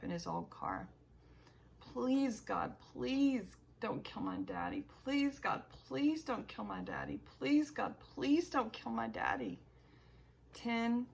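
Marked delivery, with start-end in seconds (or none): 1.8-9.6 high, pleading prayer, near tears; desperate pleading. Acted. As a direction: beg God, frightened and desperate. Frantic prayer for father.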